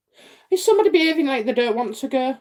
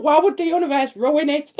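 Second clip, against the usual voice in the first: laughing, half-crying mock complaint; mock wail; 4 semitones higher than usual. Blaming the universe for rain, laughing mock cry. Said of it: "I'd be like".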